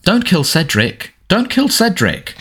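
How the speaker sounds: slow, mock-pleading whimper, climbing very high; high-pitched whimpering mockery. A narrator's reading. Dudley mimicking his cousin's nightmare, high mocking whimper. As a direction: imitate a terrified sleeper in a squeaky whimper. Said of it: "adopted a high-pitched, whimpering voice".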